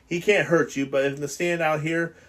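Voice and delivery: a lightly voiced nervous boy complaining; fretful fat boy Piggy.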